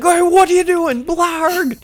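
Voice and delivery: mock startling yell, loud and very high; Stanley. Stanley jumping out at the kids, mock high yell. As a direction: burst out hollering like a cartoon monster. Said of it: "Stanley jumps out from the bushes".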